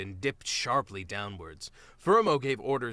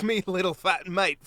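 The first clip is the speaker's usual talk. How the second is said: jolly teasing captain voice, louder; rough friendly otter ribbing his mate; hearty captain; 7 semitones higher, 7 dB louder than usual. Acted. Captain teases mole.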